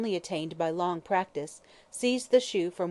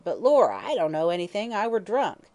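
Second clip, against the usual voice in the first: put-on drunken old hag; 2 semitones higher, 6 dB louder than usual. Hag's voice.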